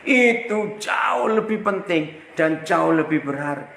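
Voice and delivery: preaching shout. Real, not acted. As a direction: call it out to the congregation. Preacher proclaims the main point.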